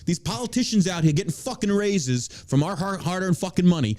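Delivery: ranting in New York mode; worked-up New York tirade. Real, not acted. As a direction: let the indignant New Yorker rip. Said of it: "Still in fucking New York mode".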